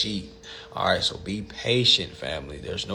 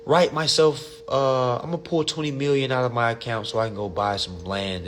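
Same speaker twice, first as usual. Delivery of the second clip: a hint of a clueless caller; mocking a naive woman; 3 semitones higher than usual. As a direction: imitate her carefree plan. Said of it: "I heard one woman, she was like".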